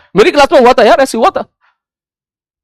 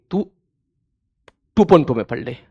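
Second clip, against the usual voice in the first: softer, lower, restrained plea; loving request; 7 semitones lower, 8 dB quieter than usual. Real, not acted. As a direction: ask gently, with pauses, keeping it low. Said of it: "बहुत प्यार से request में बोल रहा हूं".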